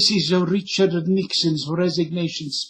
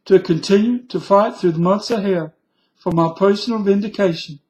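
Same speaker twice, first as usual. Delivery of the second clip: higher, faster Southern president voice; lightly voiced Carter, higher; Jimmy Carter impression; 4 semitones higher than usual. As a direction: read it like a mild Georgia peanut farmer. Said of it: "I'll end with Jimmy Carter".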